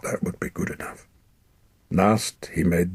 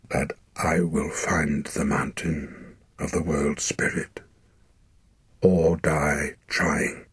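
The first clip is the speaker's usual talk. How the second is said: unsteady oath; slower than usual. Acted. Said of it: "In an unsteady voice he took his oath".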